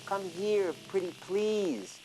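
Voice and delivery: hissing snake. Acted. Snake begs the lamb to come, slow and wheedling. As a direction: draw it out, sweetly wheedling. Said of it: "He started to hiss".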